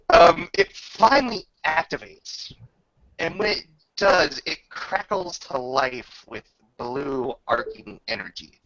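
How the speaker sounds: game master narration. Acted. Game master describing the weapon to the player, measured narration. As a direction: paint the weapon's power for the player.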